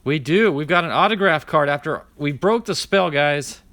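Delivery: thrilled at breaking the card drought; excited. Real, not acted. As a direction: burst out with the good news. Pulled an autograph card.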